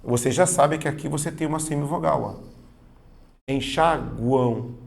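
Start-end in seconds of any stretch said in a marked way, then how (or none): 3.5-4.7 enxaguam drawn out slowly, the U clearly sounded; slow pronunciation demo. Shown as a demonstration. Teacher showing students the U in enxaguam, slow and clear. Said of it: "Veja que a letra U é pronunciada".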